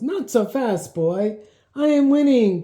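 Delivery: loud, high taunting shout; shouted back. Acted. Boy racing his sister, shouting back loud and high. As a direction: yell it over your shoulder while galloping. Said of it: "Gabe shouted back".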